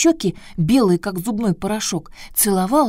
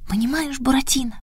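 high Pierrot voice; 6 semitones higher than usual. Acted. Pierrot starts telling his story.

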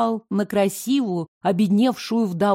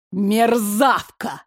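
hissed; much slower than usual. Acted. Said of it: "змеёй прошипела".

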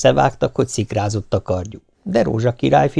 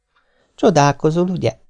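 put-on girl's voice; 5 semitones higher than usual. The serpent girl speaks. (könnyed, kissé magasabb lányhang)

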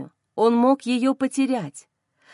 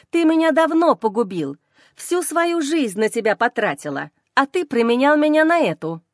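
furious outburst; 2 semitones higher than usual. Acted. Madwoman screams accusation at Kirill.

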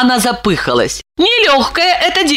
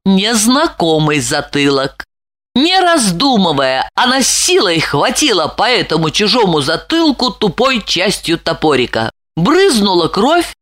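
usual speaking voice

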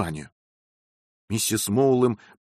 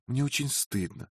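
softer, hushed sorry; whispered apology; 4 semitones higher, 6 dB quieter than usual. A narrator's reading. Wife whispering an apology to her husband. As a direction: murmur it into his ear. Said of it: "шептала Розамонда".

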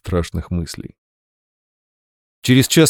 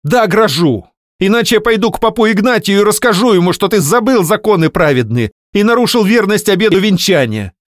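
furious threat; 11 semitones higher, 5 dB louder than usual. Acted. Wife vowing to expose husband.

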